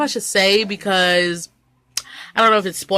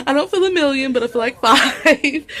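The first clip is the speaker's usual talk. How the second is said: laughing; 6 semitones higher than usual. Real, not acted. Joking about looking good.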